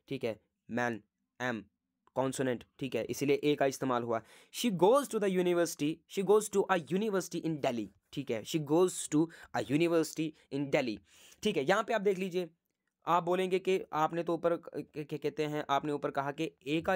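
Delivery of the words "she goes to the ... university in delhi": each word spaced out for the class, very slowly; slow example dictation. Shown as a demonstration. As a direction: say the example slowly twice so it sinks in.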